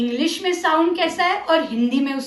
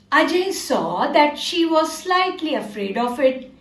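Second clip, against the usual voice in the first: slow, careful storytelling for little ones; story reading to children; 3 semitones lower, much slower than usual. Acted. Teacher telling class a story about Ajay, slow and careful. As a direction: read it slowly, word by word, for young kids.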